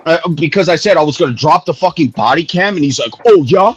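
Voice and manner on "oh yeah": retold threat. Retells rival's threat.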